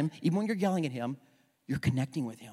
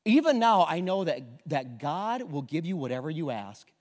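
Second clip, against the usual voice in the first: Martha's faith; 4 dB louder than usual. Acted. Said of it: "I love her faith".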